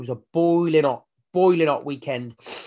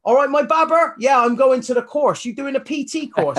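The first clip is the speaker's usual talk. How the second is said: loud, much higher-pitched imitation of a West Country bloke; West Country accent; 11 semitones higher, 7 dB louder than usual. Rugby-built stranger greeting a fellow trainee, booming West Country accent. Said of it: "in his West Country accent".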